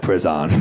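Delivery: "prison" echoed as priz-AHN; mocking pronunciation. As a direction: throw "prison" back with a full "ahn" ending. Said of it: "which kinda bugged me".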